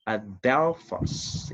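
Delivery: Adelphos stretched slowly with a rising end; reading aloud together with students; slow choral reading. Shown as a demonstration. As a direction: lead the class through Adelphos slowly. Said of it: "Read it with me".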